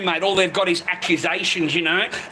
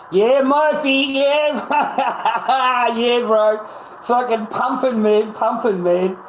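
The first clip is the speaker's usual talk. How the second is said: excited shout; 5 semitones higher, 4 dB louder, much slower than usual. Real, not acted. Hyping the coin with Murphy.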